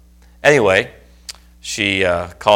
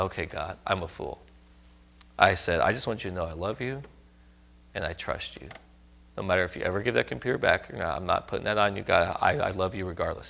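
softer, quiet confession of trust; humble surrender; 5 dB quieter than usual. Retold or imitated. Preacher retelling his prayer of surrender, soft and humble. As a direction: give in gently, humbled. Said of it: "lovingly got my heart".

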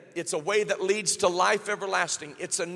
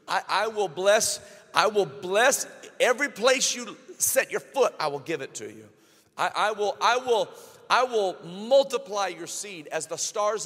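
tumbling over his words, bursting with delight; giddy God. Acted. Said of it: "God gets giddy with excitement".

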